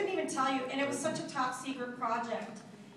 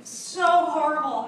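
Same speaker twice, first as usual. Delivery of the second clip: very slow, loud laughing words; laughing hard; 3 semitones higher, 12 dB louder, much slower than usual. Real, not acted. Recalling the baby episode, laughing slowly and loudly. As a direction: laugh through every word. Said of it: "I was laughing so hard".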